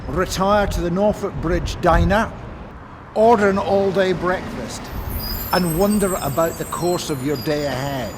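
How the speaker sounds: measured recital of instructions; formal reading aloud. Acted. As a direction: read out each step clearly. Reads rest of score.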